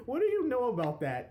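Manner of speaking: put-on little girl voice. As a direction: play a sassy little girl. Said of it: "It's like the little girl".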